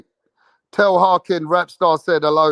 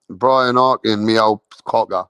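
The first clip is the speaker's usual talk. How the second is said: mock cockney; 7 semitones lower than usual. Streamer greets old mate Brian in mock cockney. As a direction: lower cockney-style me old cocker.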